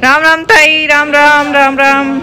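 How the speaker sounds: cheerful greeting called out to the aunt. Real, not acted. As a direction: call out a respectful hello.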